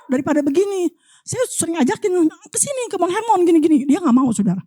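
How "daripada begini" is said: scolding retort. Retold or imitated. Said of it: "Saya bilang".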